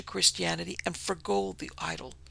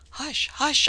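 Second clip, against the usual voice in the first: higher, pitying hush; 8 semitones higher, 4 dB louder than usual. A narrator's reading. Narrator comforts the terrified woman, pitying and soothing. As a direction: soothe someone frightened, voice lifted. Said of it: "I said with pity".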